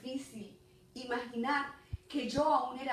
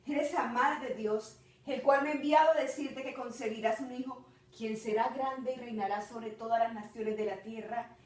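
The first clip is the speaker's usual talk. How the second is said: louder, slightly lifted messenger voice; angel's announcement; 2 semitones higher, 5 dB louder than usual. Acted. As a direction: proclaim it as God's messenger, lightly voiced. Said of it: "cuando él me dijo".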